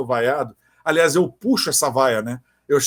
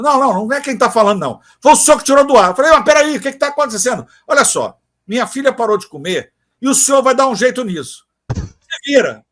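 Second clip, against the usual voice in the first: angry mother; 5 semitones higher, 5 dB louder than usual. Retold or imitated.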